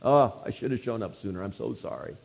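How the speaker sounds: mock-feeble, soft, sorry lament; hammed-up limp, apologetic pleading; weak wooing. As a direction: plead weakly, voice sunk low and soft. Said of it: "some weak kind of wooing".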